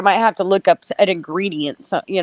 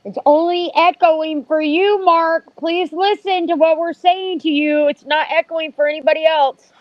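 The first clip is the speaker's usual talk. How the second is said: exasperated; 5 semitones higher than usual. Acted. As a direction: spell it out like to a child. Yelling at Mark over echo.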